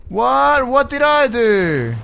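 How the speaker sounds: high, slow wail of disbelief; dismayed whine. Real, not acted. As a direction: whine it out, stretching the words. Dismayed at losing progress.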